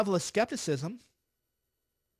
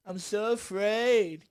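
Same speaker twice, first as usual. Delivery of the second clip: a louder, very slow mock whimper; mock fearful wail; 2 semitones higher, 5 dB louder, much slower than usual. Mocking NSC staff who fear their jobs, hammed-up slow whine. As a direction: stretch the fake fear out, hammed-up.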